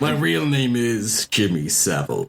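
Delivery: slow, lightly voiced villain. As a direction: drawl it like a cartoon villain. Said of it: "sounds like a Marvel villain".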